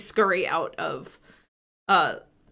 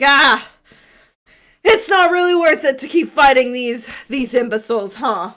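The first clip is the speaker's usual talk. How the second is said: loud, higher tough warrior woman; half-orc woman voice; 4 semitones higher, 7 dB louder than usual. Acted. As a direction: bark it out like a scornful brawler. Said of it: "and she's like".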